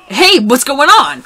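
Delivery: confused. Acted. Student confused by robot.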